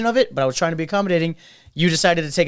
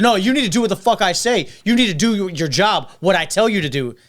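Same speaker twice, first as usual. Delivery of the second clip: mild mock yell, pitched up at first; retold yelling; 2 semitones higher than usual. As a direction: imitate an angry customer giving orders, half-raised voice. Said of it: "then he starts yelling".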